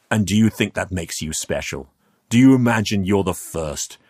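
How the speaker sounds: lightly voiced reproving schoolteacher; a touch of condescension, pressing the second question; disappointed schoolteacher. Man belittles youth's discovery, like a disappointed schoolteacher. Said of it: "like a disappointed schoolteacher".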